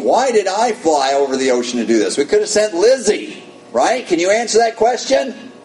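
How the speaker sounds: panicked inner voice. Retold or imitated. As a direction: squeak it out like a panicking preacher. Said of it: "I'm thinking".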